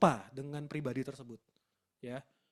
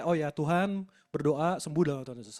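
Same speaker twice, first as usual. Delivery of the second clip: imitating a louder-than-usual prayer; 5 dB louder than usual. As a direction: pray aloud with force, as if retelling it. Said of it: "suaranya lebih kenceng".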